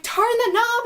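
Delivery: high, insistent mock order; imitated calling out. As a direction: call it through a closed door, acted. Officer calling through elevator door.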